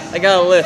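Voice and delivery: "I got a list" with a lisped th on list. Retold or imitated. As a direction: lisp the word "list" like "lif". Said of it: "He's like".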